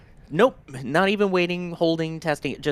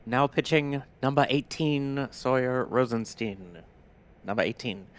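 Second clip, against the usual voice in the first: Bob Shepard impression; 3 dB quieter than usual. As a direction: announce it like an echoing ballpark PA. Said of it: "that was the old Bob Shepard impression".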